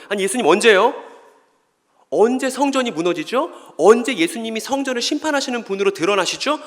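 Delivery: high, urgent questions in mock surprise; astonished disciples. Disciples question Jesus about the temple's judgment, acted astonishment. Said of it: "제자들이 너무 놀랐어요".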